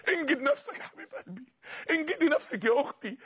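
pleading with a catch of crying; tearful plea. Real, not acted. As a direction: beg them with a breaking voice. Pleading with listeners.

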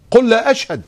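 قل hit high and loud; stress on قل. Acted. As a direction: punch the word قل. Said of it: "stressing the Quranic command". (تشديد على كلمة قل)

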